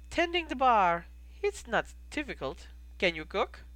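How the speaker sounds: lightly voiced innkeeper with a foreign accent; measured, accented innkeeper explaining a recipe; a hint of the foreign-accented barkeep. Plays innkeeper Goldie.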